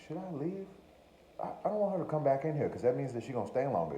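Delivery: high, quick nervous inner thoughts; panicked inner voice. Retold or imitated.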